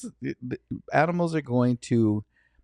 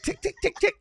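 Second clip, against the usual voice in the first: quick, high ticking sounds; imitated jabbing noises; 3 dB quieter than usual. Demonstrating close-quarters knife work to a friend, imitated jabbing. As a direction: tick out rapid knife jabs.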